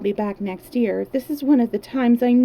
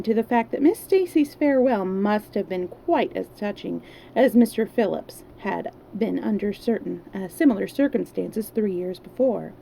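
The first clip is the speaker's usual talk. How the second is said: steady read-aloud storytelling voice; story narration. Acted. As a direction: read the chapter like a bedtime story. Reads novel aloud.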